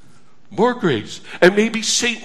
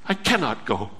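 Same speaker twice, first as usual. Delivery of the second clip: low hushed plea; 11 semitones lower, 10 dB quieter than usual. Acted. Soul voiced clinging to God.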